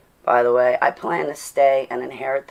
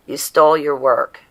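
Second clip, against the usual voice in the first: mock hater; 4 dB louder than usual. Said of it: "That's the other one".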